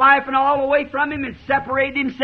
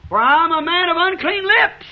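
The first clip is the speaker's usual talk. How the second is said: raised, ringing preacher's cry; retold cry; 4 semitones higher than usual. Preacher voices Isaiah crying out in the temple, retold cry. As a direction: cry it out like an anguished prophet. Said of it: "He cried".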